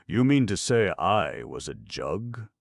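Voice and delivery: loud, incredulous question; astonished gnome. Acted. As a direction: disbelief at being a jug.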